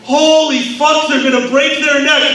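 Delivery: mock-alarmed onlookers; a touch of panicked bystander; alarmed NPC. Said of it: "every N P C in the room was just like".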